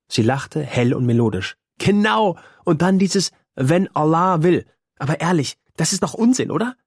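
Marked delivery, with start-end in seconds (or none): 1.8-6.8 put-on high, playful girl's voice; a girl poking fun at the grown-ups; teasing girl. A narrator's reading. Fatima mocks the elders' talk. (hohe, neckende Mädchenstimme)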